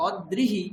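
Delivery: "অদ্রিহি" as od-drihi, d closing first syllable; split consonants. Shown as a demonstration. Teacher warns student of the error, d split off. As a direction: hold the d in "অদ্রিহি", od then drihi. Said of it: "এই উচ্চারণটা ভুল উচ্চারণ".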